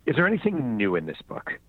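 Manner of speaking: mocking interviewer. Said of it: "they'll say".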